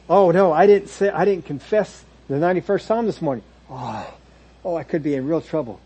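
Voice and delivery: mock-alarmed worrier; mock panic. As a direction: fret like you broke a rule, hammed-up. Mimics fretful ritual keeper.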